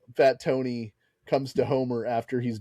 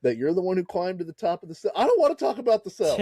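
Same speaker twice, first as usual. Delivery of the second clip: higher, fast and touchy; huffy mock defensiveness; 4 semitones higher than usual. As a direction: snap back, wounded pride. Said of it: "acted quarrel in roles".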